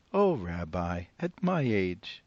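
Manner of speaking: put-on old woman voice. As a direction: play the cheerful old grandmother.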